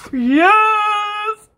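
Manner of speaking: high, loud cry of joy; excited yes. Retold or imitated. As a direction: cheer it like you won.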